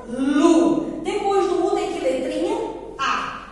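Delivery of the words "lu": "Lu" held long and loud; reading by syllables. Shown as a demonstration. Teacher answering which syllable it is, drawn out. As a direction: draw out "Lu" as one strong beat. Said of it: "Que sílaba é essa?".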